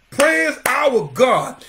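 very slow, stretched call to praise; proclamation. Retold or imitated. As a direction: draw each word out like a proclamation. Proclaims the voice from the throne.

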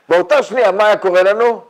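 loud, high and emphatic. Real, not acted. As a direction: throw the question out loudly at the listeners. Building a hypothetical to its punch.

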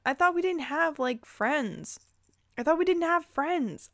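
confused protest; incredulous. Real, not acted. Baffled by the story.

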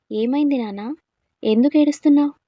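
lifted, anxious fatherly questioning; concerned father. A narrator's reading. Father asks the crying boy what happened, concerned.

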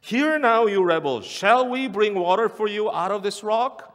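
loud, high, furious question; angry rebuke. Retold or imitated. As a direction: hurl it at the rebels. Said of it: "sounds more like him angry".

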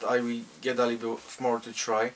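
lips around smoking hose tip; talking while taking hookah drag; speaking with hookah mouthpiece in mouth. Real, not acted.

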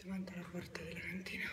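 breathless after hauling boxes down; winded, short of breath. Real, not acted. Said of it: "scusate il fiatone".

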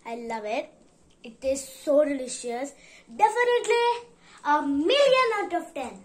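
savoring sweet snack; chewing while talking. Real, not acted. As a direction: mouth partly full. Seen 1: Mouth moves like chewing between words; pie held again from +4.2.

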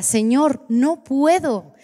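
más aguda, alargando despacio el no puedo; súplica llorosa. Retold or imitated. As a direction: rogar entre lágrimas contadas. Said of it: "Y lloraba y lloraba". (tirada en el suelo, suplicando al Señor con llanto)

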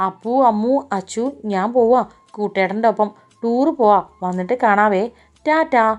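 put-on calling to kids from the car window; calling out loudly. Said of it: "പുറത്തേക്ക് തലയിട്ട് അവൾ ഉറക്കെ വിളിച്ചു". (ഉറക്കെ വിളിച്ചു പറയുന്നു)

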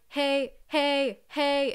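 hey punched loud and high; punchy. Shown as a demonstration. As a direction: punch each hey with bursts. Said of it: "punchy meaning we're singing like".

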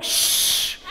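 whispered shh; hushing. Retold or imitated. Husband hushing his wife at the game, whispered. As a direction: hush her with a laugh.

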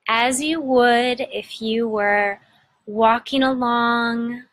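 unhurried meditation guide with long pauses; measured, soothing guidance, phrase by phrase; guided meditation. Acted. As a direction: gently lead listeners inward, pausing between phrases.

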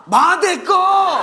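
slow, loud, high exasperated yell; exasperated shout. Acted. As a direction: bark it out, fed up. Exasperated answer to repeated question.

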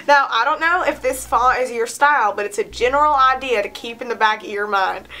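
playful southern accent. Shown as a demonstration. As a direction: read it with a put-on southern accent. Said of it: "say it in a southern accent".

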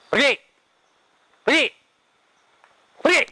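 loud, high angry rebuke; angry shouting. Real, not acted. Arguing with spirit, banishing it.

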